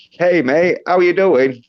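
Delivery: cheery Aussie greeting, lifted up a touch; Australian accent. Shown as a demonstration. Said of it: "do a bit of a high pitch".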